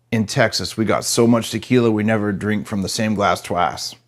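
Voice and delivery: put-on a lightly done Texas accent, boasting and slowing at the end; a hint of a Texas accent in a bragging punchline; Texan boast. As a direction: brag like a big-hat Texan, mild Texas twang. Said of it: "the Texan says".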